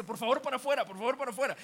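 high, loud, insistent request; acted urgent ordering out. Lady sends him out of the gate, urgent and loud. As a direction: voice a woman shooing out an intruder.

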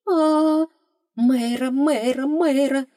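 high, loud rising cries for help; panicked call. Acted. Heroine startled by the creature, panicked cries. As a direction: yelp the name in alarm.

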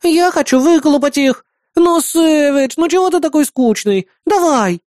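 put-on high, whiny childish pleading; whining like a child. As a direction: nag like a spoiled little kid. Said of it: "Словно маленький ребёнок конючила Бисмарк". (капризно ноет, как маленький ребёнок)

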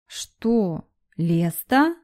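soft, drowsy, just woken up; sleepy voice. A narrator's reading. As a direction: mumble it half asleep. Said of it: "раздался сонный голос дракона". (сонным голосом)

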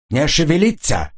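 barked order. A narrator's reading. Jan threatens with his pistol, barking. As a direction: snap it like a gunman. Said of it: "рявкнул Ян".

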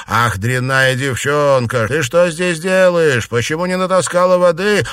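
mother yelling at her daughter; scolding mother. A narrator's reading. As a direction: berate the lazy daughter. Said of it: "раздался голос матери Чуньянь".

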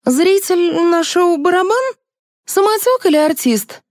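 very high-pitched rapid-fire interrogation; stern. A narrator's reading. Liza interrogating the young man she grabbed, stern. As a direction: grill him with pointed questions. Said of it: "услышала строгий вопрос".

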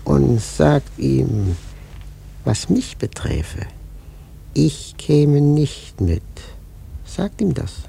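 slow, loud, weighty; ominous loud message. Acted. Prophet sending a loud ominous message to the captain. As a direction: hammer each word as a warning.

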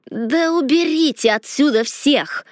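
a hint of a creaky, nasty stranger; lightly voiced harsh old crone; creaky unpleasant voice. A narrator's reading. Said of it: "незнакомый, скрипучий, противный голос".

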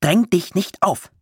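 furious warning, drawn out; slow angry shout. A narrator's reading. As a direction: bark each word slowly. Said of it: "schrie Jakob".

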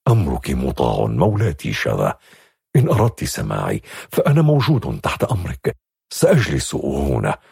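low, obedient servant's voice. A narrator's reading. Servant accepting his lady's dismissal, low and obedient. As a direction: submit calmly to her order. Horan's voice.

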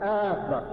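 أكبر opened on a long "aa"; stretched first vowel in أكبر; hamza of akbar lengthened. Shown as a demonstration. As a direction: say أكبر as "aaakbar". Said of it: "مديت همزة أكبر".

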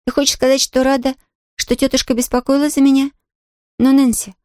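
put-on a young girl, puzzled and earnest; puzzled Pollyanna. Pollyanna asks Nancy, surprised girlish voice.

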